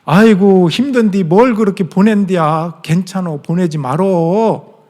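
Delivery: lightly voiced fond old mother, slow Chungcheong drawl; mother in Chungcheong dialect. Mother on the phone refusing Parents' Day money, in Chungcheong dialect. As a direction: gently scold your son for sending money. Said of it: "어머니가 먼저 사투리를 하세요".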